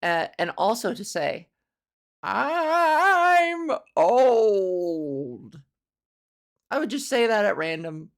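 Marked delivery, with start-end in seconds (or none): 2.2-5.6 high, loud fake-sob whine; a mocking crying wail. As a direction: whimper it like a mock lament. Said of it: "in that voice".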